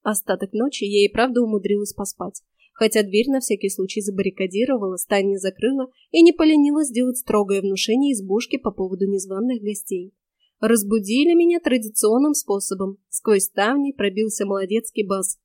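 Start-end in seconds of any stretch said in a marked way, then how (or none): none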